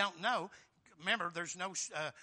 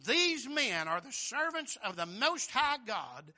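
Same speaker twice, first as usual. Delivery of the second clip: loud, drawn-out proclamation; mock cry; 6 dB louder, slower than usual. Preacher quoting the slave girl who cried after Paul, slow loud cry. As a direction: cry it out slowly and emphatically. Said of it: "followed Paul and us and cried".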